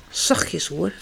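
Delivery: soft hushed warning; papa hushing Kas by the crib, soft hush; whispered. Acted. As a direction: hush so the baby sleeps. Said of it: "fluistert papa".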